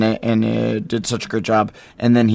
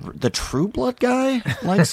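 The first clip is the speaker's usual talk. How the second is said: mock awe; 11 semitones higher, slower than usual. Their awed reaction.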